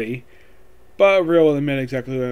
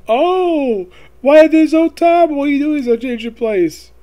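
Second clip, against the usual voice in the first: high-pitched, surprised doting greeting; hammed-up high voice of fond surprise; Big Mom; 10 semitones higher, 3 dB louder than usual. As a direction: exclaim in a high, put-on voice at a child's arrival.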